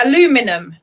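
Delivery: trying "Aluminum" the American way, uh-LOO-mi-num; attempted American pronunciation. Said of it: "I can't even say that".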